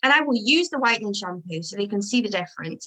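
usual speaking voice

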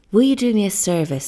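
urgent plea. Acted. Kukua urgently begs stranger.

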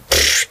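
short puff of air through the lips; voiceless lip puff; dismissive pfft. Retold or imitated. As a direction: blow out a spent, all-done pfft. Imitating being utterly finished.

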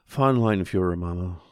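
correcting mother earnestly; young boy. Acted.

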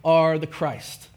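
very slow, weighty, each word set down; slow solemn declaration. Retold or imitated. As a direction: let the confession land slowly. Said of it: "and he says".

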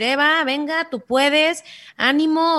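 a hint of an upbeat father; cheering dad. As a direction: pump her up like a coach dad. Imagined dad cheering her on.

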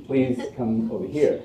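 politely ushering, lightly British; comic devil host with a British touch; imitated British accent. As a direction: usher them over in mock British. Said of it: "he has his British accent".

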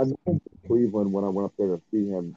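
muffled, like through a wall. Real, not acted. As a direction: voice muffled by a bad mic. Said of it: "You sound muffled".

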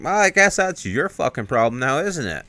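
hammed-up angry brush-off; retold flip-out. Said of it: "he just flips out".

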